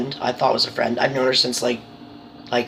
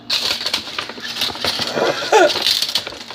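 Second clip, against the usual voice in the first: real cracking-up laugh, way up high; long giggling fit; high burst of laughter; 13 semitones higher than usual. Real, not acted. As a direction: break into helpless laughter. Laughing at rutabaga gift.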